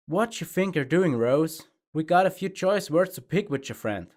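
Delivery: a tough farm pony blocking the way; confrontational Applejack. A narrator's reading. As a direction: square up and demand answers.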